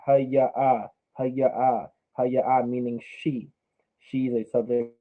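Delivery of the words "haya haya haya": Haya with the final a drawn out; slowed down. Shown as a demonstration. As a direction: stretch the end of Haya. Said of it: "Let's slow it down".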